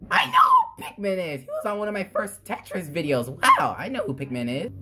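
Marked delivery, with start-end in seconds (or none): 0.1-1.4 high squealing shout of recognition; excited shout. Real, not acted.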